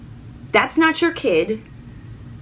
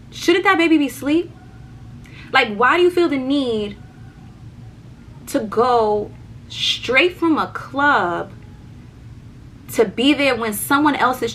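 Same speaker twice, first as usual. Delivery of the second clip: raised, heated questioning; higher, indignant tirade; retold angry rant; 4 semitones higher than usual. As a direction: let the outrage build at her boyfriend. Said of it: "I was like".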